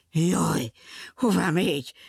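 frightened cry. Acted. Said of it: "kiáltotta rémülten a bohóc".

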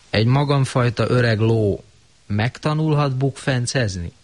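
a hint of a wistful old horse; longing old horse. Old horse asking Romó wistfully. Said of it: "sóvárogva".

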